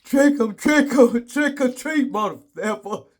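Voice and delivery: high, sing-song taunting chant with laughter; cheeky trick-or-treat taunt; sassy attitude. Acted. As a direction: tease it out with attitude. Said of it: "I woke up this morning with attitude".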